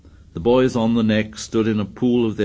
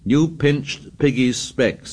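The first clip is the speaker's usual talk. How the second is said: breathless; 6 semitones higher, slower than usual. A narrator's reading. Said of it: "said Ralph breathlessly".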